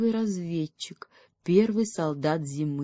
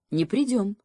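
firm short confirmation; affirming with a nod in the voice; confirming; 4 semitones higher than usual. Acted. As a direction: say it like a promise kept. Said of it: "подтвердил заяц".

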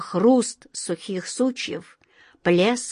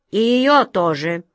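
angry shriek; 4 dB louder than usual. Acted. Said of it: "Весь трясясь от злости, завизжал король".

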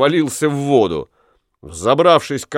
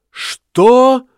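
much higher, louder shocked roar; bellowed What; 12 semitones higher, 5 dB louder than usual. Acted. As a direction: howl it in outrage at the name. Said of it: "возопил Ламме".

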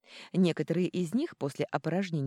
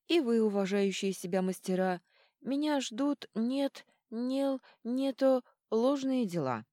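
higher, tripping over сложные as нел, нето; drunk stumbling; 7 semitones higher, slower than usual. Acted. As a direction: fumble the word like a drunk. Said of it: "почти справился со сложной фразой". (пьяно спотыкаясь на слове «сложные»)

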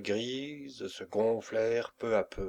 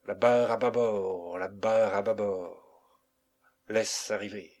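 frightened cry; 3 dB louder than usual. Acted. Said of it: "cria tout à coup Zélie avec effroi".

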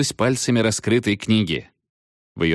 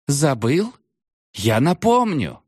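menacing witch; 8 semitones higher, slower than usual. A narrator's reading. Witch threatens captain.

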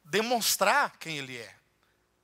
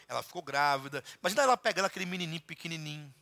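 usual speaking voice

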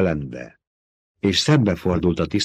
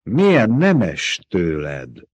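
mocking; much slower than usual. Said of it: "gúnyos hangon".

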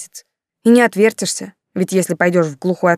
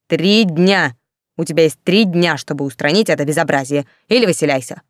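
threatening. Acted. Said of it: "пригрозила".

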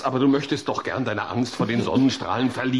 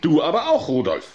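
firm reply; 5 dB louder than usual. Acted. Therapist answers back.

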